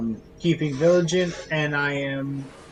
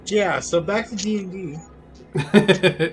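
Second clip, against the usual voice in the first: laughing; 6 semitones higher, 4 dB louder, much slower than usual. Real, not acted. Laughing after joke, redirecting.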